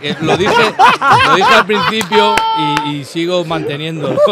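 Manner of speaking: high, loud laughing speech. Real, not acted. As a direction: crack up while gloating. Co-host laughs while boasting. (entre risas)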